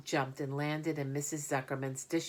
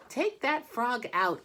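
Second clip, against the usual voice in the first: sharp higher, louder command; ordering; 9 semitones higher, 5 dB louder than usual. Acted. Fern ordering Avery to take the frog out, loud and high. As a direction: tell him off firmly. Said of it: "ordered Fern".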